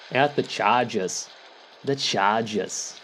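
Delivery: bad Boston accent, drawn out. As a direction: lay on a thick Boston accent. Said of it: "with a terrible Boston accent".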